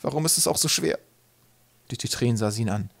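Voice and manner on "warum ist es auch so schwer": high-pitched mother's complaint; mildly scolding, pained question; exasperated lament. A narrator's reading. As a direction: bemoan it in frustration. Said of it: "schimpfte Spelda".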